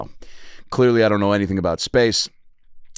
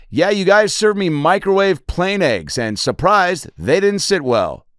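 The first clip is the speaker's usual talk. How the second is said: higher, louder and slow yell through the door; hammed-up angry shout at the stewardess; mock scream back; 10 semitones higher, 4 dB louder, slower than usual. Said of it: "I scream back".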